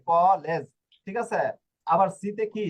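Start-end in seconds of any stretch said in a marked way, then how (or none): 0.1-0.6 কলেজ said with emphasis on its opening k; K sound. Shown as a demonstration. Teacher repeats example for learners, firm k in কলেজ. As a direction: punch the first syllable of কলেজ. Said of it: "ক এর উচ্চারণ আসছে".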